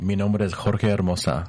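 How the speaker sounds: put-on slow Spanish with Latino accent. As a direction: say your name like a Latino. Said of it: "Should I say it with a Latino accent?".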